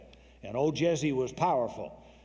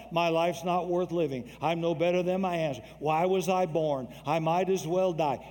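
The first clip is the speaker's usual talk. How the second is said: self-pitying lament; 3 semitones higher than usual. Retold or imitated. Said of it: "start attacking yourself".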